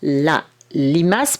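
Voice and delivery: "limace" with the l drawn out long and slow; slow teaching demo of a long l; long held consonant. Shown as a demonstration. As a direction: stretch the l of "limace" for the child. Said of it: "les consonnes longues, celles qui durent en bouche".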